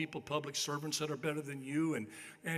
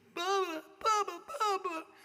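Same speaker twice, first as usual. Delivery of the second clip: put-on tiny, very high child's voice calling out; 4 dB louder than usual. Telling a story, the speaker imitates a little kid calling out to him. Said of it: "this little toe-headed voice going".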